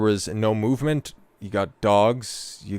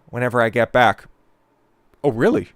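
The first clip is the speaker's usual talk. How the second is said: loud, higher mocking challenge; mock confrontation; 5 semitones higher, 6 dB louder than usual. Streamer acting out the husband taunting his wife, loud. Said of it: "acting out husband's reply".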